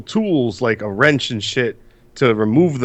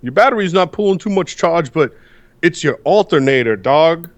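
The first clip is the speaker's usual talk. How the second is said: casual store clerk; 3 semitones higher, 3 dB louder than usual. Retold or imitated. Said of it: "they plug the shit into my battery and go".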